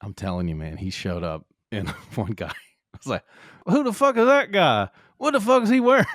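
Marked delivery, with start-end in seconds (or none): 3.7-6.1 high, loud mock outrage; indignant onlooker. Guy reacting to Jordan turning up, high indignant shout. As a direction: shout it like an affronted bystander.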